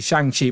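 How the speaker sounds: Shang-Chi with Shang rhyming with "hang"; Shang-Chi with the A as written. Shown as a demonstration. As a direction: say Shang-Chi with a short A as in "bang". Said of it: "it's the A that puts me off".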